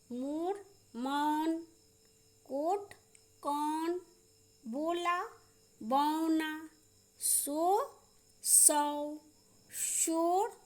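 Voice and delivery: "मोर, मौन" apart, round ओ against open औ; vowel contrast drill. Shown as a demonstration. Teacher practising ओ and औ with pupils, careful dictation. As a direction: stretch the औ in "शौक", pausing after each word. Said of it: "ओ और औ का उच्चारण".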